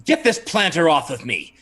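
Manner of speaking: mild growl of annoyance; a lightly acted irritated order. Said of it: "Brother LaChance just growls and says".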